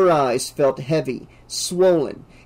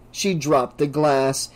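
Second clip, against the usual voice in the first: usual speaking voice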